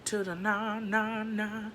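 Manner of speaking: slow, drawn-out sassy no; sassy refusal. Retold or imitated. Refusing her boss, a slow, sassy drawn-out no. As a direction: stretch out the refusal with attitude. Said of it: "And I was like".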